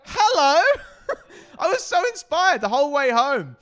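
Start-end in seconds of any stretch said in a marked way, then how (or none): 0.0-0.6 high, loud commanding Hello; hello as an order. Retold or imitated. The mum's Hello as a command, high and loud. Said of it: "She said it like it was an order".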